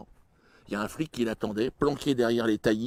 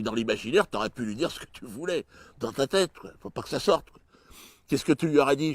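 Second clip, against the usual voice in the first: normal talking voice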